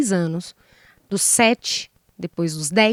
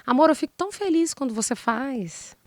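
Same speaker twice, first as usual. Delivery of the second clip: tender request. Retold or imitated. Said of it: "quando ela tem uma fala assertiva".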